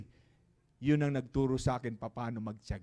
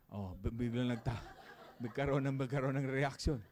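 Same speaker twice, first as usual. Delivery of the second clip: laughing; 2 semitones lower, 5 dB quieter than usual. Real, not acted. Laughing mid sentence.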